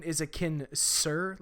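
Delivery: "Kinser" drawn out with a hissing S sound; "Kinser" as in kin-sir. Shown as a demonstration. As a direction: say "Kinser" slowly, second syllable starting with S. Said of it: "Like, is it Kinser or Kinzer?".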